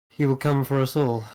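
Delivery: ordinary delivery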